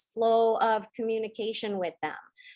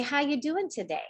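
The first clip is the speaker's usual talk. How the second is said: gentle inner question; 3 semitones higher than usual. Shown as a demonstration. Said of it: "Just say".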